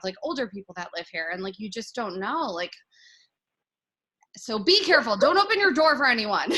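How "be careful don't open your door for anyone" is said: emphatic warning. Real, not acted.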